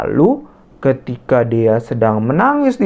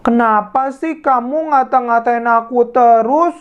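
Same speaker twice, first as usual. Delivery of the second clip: higher voice, protesting through hurt; hurt girl pleading; 10 semitones higher than usual. Acted. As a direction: defend yourself, a little wounded. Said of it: "Lalu dia berkata". (membela diri dengan sedih)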